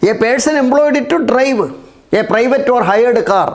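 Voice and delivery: very slow, word by word, for copying down; slow dictation. Shown as a demonstration. Teacher reading the exam question aloud to pupils, slow dictation. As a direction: dictate each word slowly so pupils can write. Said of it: "നോക്കൂ".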